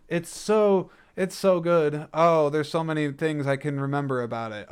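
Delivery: mock gushing. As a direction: gush like an imagined superfan, half mocking. Imitating imagined fans of Deep Impact.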